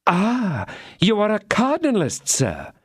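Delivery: wife crying out in reproach; cried out. A narrator's reading. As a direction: fling the word at him. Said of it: "cried she".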